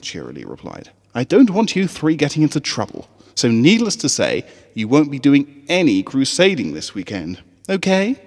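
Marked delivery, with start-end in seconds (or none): 1.1-8.2 bright, higher schoolteacher calling her class; rally the little ponies with a smile; cheerful teacher voice. Acted. Teacher Cheerilee calling her students to camp, bright and high.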